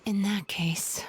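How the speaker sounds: a hushed aside; whispering as she weighs her options; thoughtful whisper. Acted. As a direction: whisper it half to yourself. Muttering to herself.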